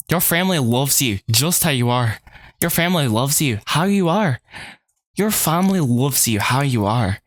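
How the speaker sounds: deliberate put-on British accent. Jane telling Betty the family loves Betty, British accent. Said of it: "a different accent, it works".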